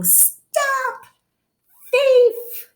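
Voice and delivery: shouted high, a long way off; calling out. A narrator's reading. Mister McGregor shouting after Peter. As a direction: yell after the thief. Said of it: "waving a rake and calling".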